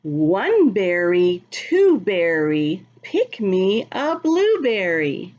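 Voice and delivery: slow, sing-song rhyme reading; reading to children. Acted. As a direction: read the rhyme slowly to little kids. Reads the rhyming book aloud.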